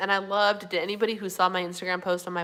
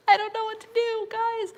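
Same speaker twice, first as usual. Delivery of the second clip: yawning while talking; 13 semitones higher than usual. Real, not acted. To her viewers, talking through a real yawn. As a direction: voice stretched high by a yawn.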